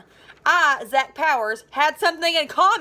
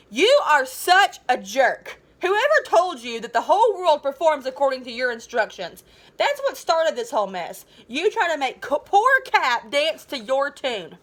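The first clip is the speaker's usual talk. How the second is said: angry; 2 semitones higher, 4 dB louder than usual. Acted. Hugh angrily rounds on Zach.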